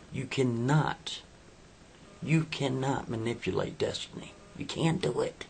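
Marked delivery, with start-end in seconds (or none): 0.1-1.2 slow, firm. Acted. Firm on destiny. 4.6-5.4 whispered refusal. Acted.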